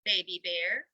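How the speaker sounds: loud call up the tree; loud encouraging call. Acted. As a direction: urge the bear upward.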